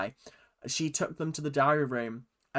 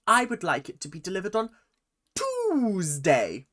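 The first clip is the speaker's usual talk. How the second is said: mock phone caller; 6 semitones higher, 4 dB louder than usual. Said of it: "sketch ... she was like".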